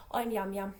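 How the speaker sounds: put-on Yam Yam accent. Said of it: "It's a Yam Yam accent".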